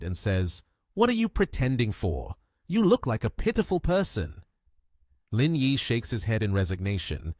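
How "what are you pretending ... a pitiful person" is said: annoyed. A narrator's reading.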